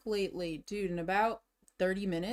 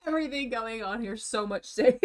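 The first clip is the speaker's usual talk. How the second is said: talking with mouth full; chewing while talking; 2 semitones higher than usual. Real, not acted. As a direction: mumble through a mouthful of cashews. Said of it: "Sorry for my chewing".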